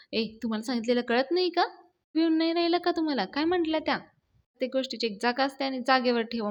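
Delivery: acted exasperated telling-off; irritated. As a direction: snap at them for not listening. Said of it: "मग यश चिडतो म्हणतो".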